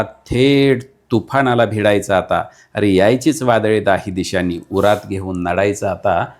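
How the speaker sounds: fiery declaimed verse, building to a call to fight; rally the listener to fight, line by line; rousing poem recital. Acted. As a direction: poet declaiming a battle poem to the audience.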